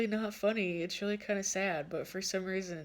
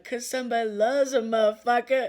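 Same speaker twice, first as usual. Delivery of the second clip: loud, higher, breaking into laughter; Spirit's gleeful retort; 5 semitones higher, 9 dB louder than usual. Retold or imitated. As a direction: crow it as a teasing comeback. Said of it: "And then Spirit's like".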